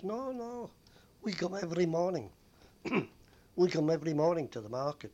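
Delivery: high, loud indignant protest, imitating a passenger. Woman protests about the fare.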